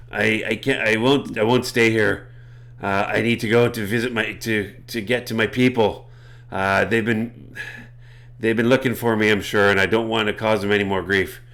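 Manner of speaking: a hint of pirate in the cat creature; lightly put-on pirate accent. Cat creature explaining it must return to its people, light pirate accent. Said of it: "with a pirate accent".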